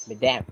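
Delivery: madame with an E sound; model pronunciation. Shown as a demonstration. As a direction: say madame with an E, not an A. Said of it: "pronounce it as madame".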